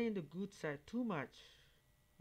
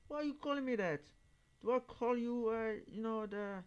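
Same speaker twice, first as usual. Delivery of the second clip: louder, higher, indignant retort; retold angry reply; 7 semitones higher, 4 dB louder than usual. Answering the kid who greeted him with a slur, loud and indignant. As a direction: snap back, outraged. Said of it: "I said".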